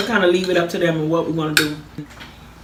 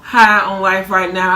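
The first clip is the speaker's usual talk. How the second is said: drawn-out excitement; slower than usual. Real, not acted. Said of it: "I'm just so excited about life".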